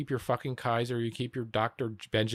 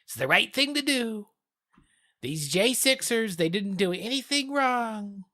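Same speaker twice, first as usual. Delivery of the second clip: mock Trump supporter; 8 semitones higher than usual. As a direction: play a sarcastic MAGA fan defending the J sixers. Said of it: "I'm doing it to myself".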